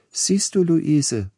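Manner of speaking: put-on high-pitched voice of a lady instructing her child; Leipzig lady lecturing her daughter. A narrator's reading. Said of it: "sprach die Dame". (hohe, belehrende Stimme einer Leipziger Dame)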